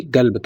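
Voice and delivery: قلب starting on a g, "galb"; touch of gaaf. Shown as a demonstration. Teacher reassuring learners who find it hard, قلب with g sound. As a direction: soften قلب into local "galb". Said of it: "تھوڑا سا گاف کا touch دے لیں".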